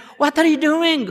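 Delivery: high, screamed, protesting voice. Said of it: "everybody was screaming down there".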